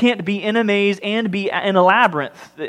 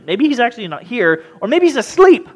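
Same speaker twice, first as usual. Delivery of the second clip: mocking jeer; 6 semitones higher, 5 dB louder than usual. Mocking Baal's absent god.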